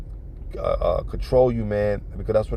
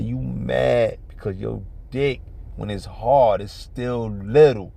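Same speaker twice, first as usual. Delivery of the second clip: slow, deliberate retold put-down; calm put-down; slower than usual. Woman wounding her man's pride, calm put-down. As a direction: imitate her, unhurried, drawing out the end. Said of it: "she said it calm".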